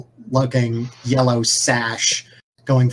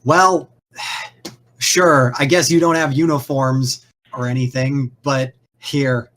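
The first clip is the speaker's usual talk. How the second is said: resigned sigh. Acted. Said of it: "He looks up at you".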